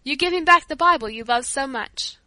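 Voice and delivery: stupefied. A narrator's reading. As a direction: repeat it in disbelief.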